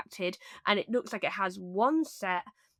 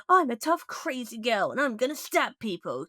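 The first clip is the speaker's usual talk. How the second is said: put-on tough crazy girl; 3 semitones higher than usual. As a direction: play a hammed-up psycho girl. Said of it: "doesn't give the energy of".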